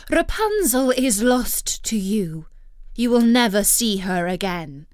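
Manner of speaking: loud, taunting enchantress; mocking. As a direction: gloat over his loss. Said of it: "she cried mockingly".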